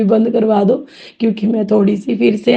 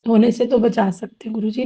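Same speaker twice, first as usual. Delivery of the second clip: tearful. Real, not acted. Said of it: "नहीं, मैं रो नहीं रही हूँ".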